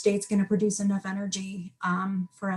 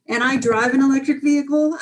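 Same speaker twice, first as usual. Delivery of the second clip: said through a short laugh; 5 semitones higher, 7 dB louder, faster than usual. Real, not acted. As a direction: chuckle while admitting it. Ironic aside with a laugh.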